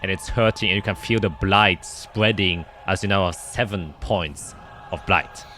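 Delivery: game master scene narration. Acted. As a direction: paint the swarm biting through the armor. GM describes swarm attacking player.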